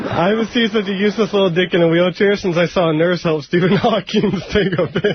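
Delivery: breaking into laughter partway, laughing through words. Delivering a roast joke to the group, laughing through the punchline. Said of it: "Don't laugh through your punchline".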